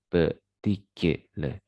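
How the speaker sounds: "petikil" broken into pe-ti-ki-le; separated syllables in "petikil", schwa at the end. Shown as a demonstration. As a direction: sound out "petikil" slowly, piece by piece. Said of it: "itu termasuk pada weak syllables".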